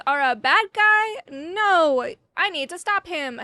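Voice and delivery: high, loud melodramatic disbelief; acted dismay. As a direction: declare it as a hammed-up betrayed fangirl. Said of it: "And she was like".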